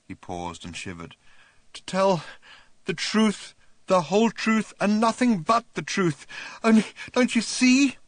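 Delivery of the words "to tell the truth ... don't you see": high and loud, building; working up to a shout; rising hysteria. A narrator's reading.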